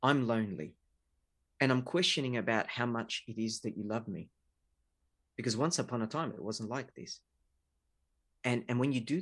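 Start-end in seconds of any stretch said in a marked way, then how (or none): 0.0-7.2 vulnerable. Retold or imitated. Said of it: "the vulnerable side is saying".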